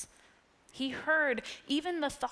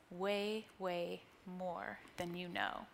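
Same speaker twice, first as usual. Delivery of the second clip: tender mom; 4 semitones lower, 9 dB quieter, slower than usual. Acted. Mom's tender answer in book.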